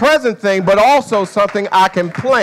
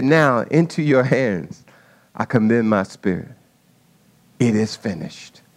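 fading last words; 10 semitones lower, 5 dB quieter than usual. Acted. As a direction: let the final breath go. Jesus' last words on the cross.

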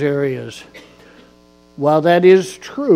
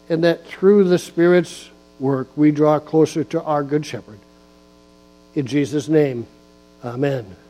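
prayer. Acted. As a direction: pray it gently to the congregation. Pastor leads opening prayer.

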